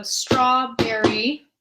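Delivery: strawberry with long straw and quick berry; rhythm shown. Shown as a demonstration. Teacher showing short syllables. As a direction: linger on straw, rush berry. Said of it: "berry is faster than the straw part".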